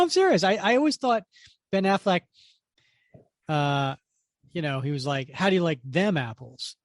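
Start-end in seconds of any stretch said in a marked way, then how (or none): 5.3-6.8 THEM picked out in "How do you like them apples"; stress on them. Retold or imitated. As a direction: put the emphasis on "them". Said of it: "totally put an emphasis on them".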